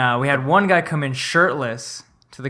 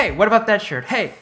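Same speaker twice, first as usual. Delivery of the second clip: put-on drunk guy; 6 semitones higher than usual. Drunk customer demanding attention.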